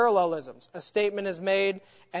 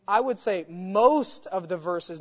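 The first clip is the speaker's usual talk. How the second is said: "most" leaned on; stress on most. Shown as a demonstration. A teacher stressing "most" to his class. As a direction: press on the word "most" to correct. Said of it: "not some of the verses".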